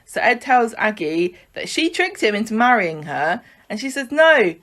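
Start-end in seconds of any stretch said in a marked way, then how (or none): 4.1-4.5 raised pitch, pleading soap wife; mock impassioned plea. Aggie fighting to save her marriage, mock impassioned plea.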